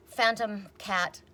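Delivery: savoring. Real, not acted. Savoring the name.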